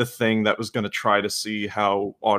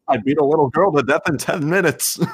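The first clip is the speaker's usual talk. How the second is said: goofy villain voice; 6 semitones higher, 6 dB louder than usual. Pretend. Mock villain line in bit.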